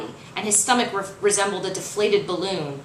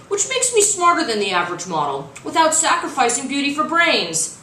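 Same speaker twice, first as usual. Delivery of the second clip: cocky showman; 7 semitones higher, 4 dB louder than usual. Acted. Creed's cocky video pitch.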